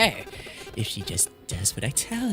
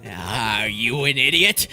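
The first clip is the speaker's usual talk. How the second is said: angry snap; 6 dB louder than usual. Acted. Ninth man snaps at Clover.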